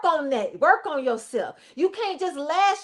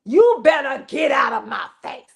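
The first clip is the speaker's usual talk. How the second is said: parent shouting. Retold or imitated. Fed-up parent yells at a misbehaving child. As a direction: yell it at the kid who crossed you. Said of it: "you say".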